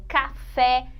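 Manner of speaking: "café" slowed, with weight on "fé"; stress on last syllable. Shown as a demonstration. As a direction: lean on the final syllable of "café". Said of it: "é a última sílaba". ("café" devagar, marcando a última sílaba)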